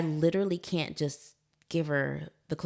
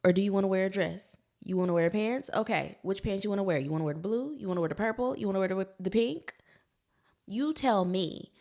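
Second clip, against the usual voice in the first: patient mom; 4 semitones higher, 3 dB louder, faster than usual. Retold or imitated. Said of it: "I'm like".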